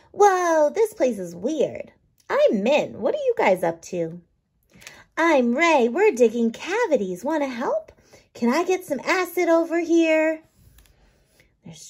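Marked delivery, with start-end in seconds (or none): 0.1-10.4 lightly voiced little microbes, curious; small bugs chatting in a mouth; microbe characters. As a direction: play the tiny cavity-diggers with cheeky glee. Min and Ray voiced.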